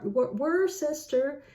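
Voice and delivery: Wor-, Worcester said slowly as spelt; spelling-pronunciation. Shown as a demonstration. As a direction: sound out Worcester letter by letter, slowly. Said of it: "So that would be something like Worcestershire".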